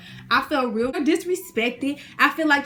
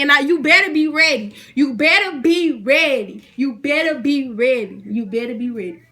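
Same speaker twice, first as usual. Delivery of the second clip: fading warning; 4 dB louder than usual. Real, not acted. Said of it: "repeated warning, fading".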